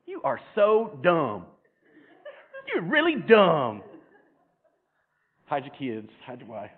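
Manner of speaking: mocking through laughter. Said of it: "and me saying".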